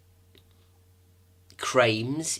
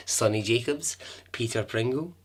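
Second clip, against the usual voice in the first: whispered names. Real, not acted. Host whispering the excellent names to listeners.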